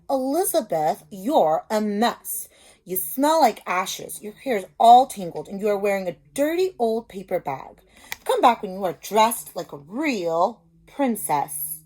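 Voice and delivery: lightly voiced haughty prince; snooty prince. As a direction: look down your nose at her. Ronald scolds Elizabeth.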